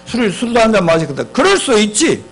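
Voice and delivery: mock defensive outburst, climbing in pitch; husband flaring up. Husband snaps back at accusing wife, flaring up. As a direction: act out an indignant husband, rising as it goes. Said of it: "남편의 응답은 버럭하면서".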